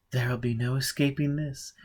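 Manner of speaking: urgent. Acted. Olivia urges him during bombardment.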